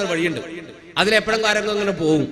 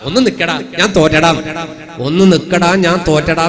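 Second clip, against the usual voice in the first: somewhat louder call, giving up; calling out in defeat; 2 semitones lower, 4 dB louder than usual. Retold or imitated. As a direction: call after him, conceding. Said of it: "തോറ്റപ്പോ ഞാൻ വിളിച്ചു". (തോറ്റ് ഉറക്കെ വിളിക്കുന്നു)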